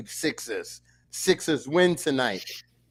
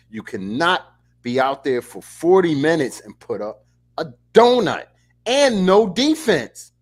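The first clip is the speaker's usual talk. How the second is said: louder, rising exasperation; exasperated rant; 5 dB louder than usual. Real, not acted. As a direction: build to an outraged What. Ranting about donuts.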